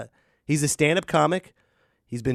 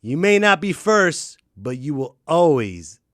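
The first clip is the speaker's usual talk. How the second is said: quoting Ric Flair; 5 dB louder, slower than usual. Retold or imitated. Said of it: "He's like".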